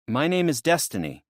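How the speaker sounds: lightly voiced young woman, guarded. Destiny answers curtly.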